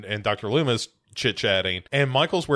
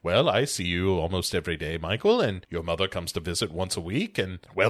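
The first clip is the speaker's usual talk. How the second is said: lower, patient doctor; 5 semitones lower than usual. Retold or imitated. Loomis explaining to Michael, lower and matter-of-fact. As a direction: calmly break the bad news. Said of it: "Loomis is like".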